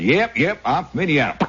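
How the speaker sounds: put-on Indiana twang; lightly acted Indiana accent. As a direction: play up a folksy Indiana accent. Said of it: "turned down my Indiana accent".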